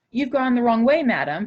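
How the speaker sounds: lightly voiced steward turning them away. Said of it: "he said".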